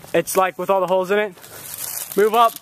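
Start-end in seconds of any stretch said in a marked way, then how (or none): 2.2-2.5 loud, higher command; shouting orders over battle. Real, not acted. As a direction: bark the order forward.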